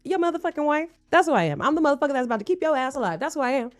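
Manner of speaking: acted indignant comeback, starting high; emphatic, sassy retort; indignant wife. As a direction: play a wife laying down the law. Acting the wife's comeback.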